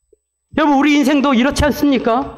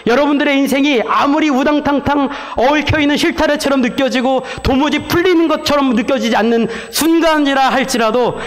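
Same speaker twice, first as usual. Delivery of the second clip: ordinary talk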